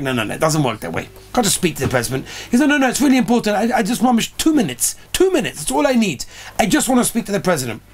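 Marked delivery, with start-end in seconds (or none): 0.0-2.3 a hint of a lower, faster brush-off voice; lightly voiced operator waving him off; dismissive operator. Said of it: "the guy on the phone was, like, laughing". 2.7-7.8 pleading. Retold or imitated. Rabbi pleads with the operator.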